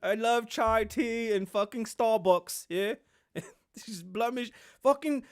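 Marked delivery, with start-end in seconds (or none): 0.0-3.0 raised, loud mock happiness; hammed-up eager insistence, pitched high; Harry impression. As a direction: imitate a prince overselling his new life. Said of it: "He's like".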